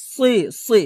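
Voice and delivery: "সি" with heavy velarized s; full, dark sad on "সি"; thick sad sound. Shown as a demonstration. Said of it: "সদ একটু মোটা হবে".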